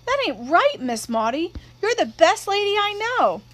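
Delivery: put-on a young girl insisting to a grown-up friend; child Scout protesting. Scout pleading with Miss Maudie.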